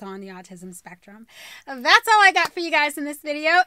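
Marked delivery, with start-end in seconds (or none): 1.7-3.6 loud, bright vlogger sign-off; cheery video sign-off; upbeat outro. Acted. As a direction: sell the goodbye to the viewers. Repeat outro, presenter voice.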